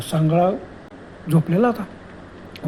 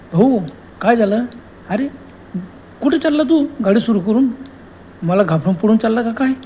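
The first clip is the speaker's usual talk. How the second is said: lightly voiced ghost woman, higher and teasing; ghost woman calling; 3 semitones higher than usual. Ghost woman teasing the fleeing Prabhakar, lightly voiced, raised pitch. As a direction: taunt him from behind like a playful ghost. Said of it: "मागून आवाज आला".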